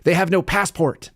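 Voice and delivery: high-pitched put-on Mexican accent. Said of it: "I'm doing this Mexican accent".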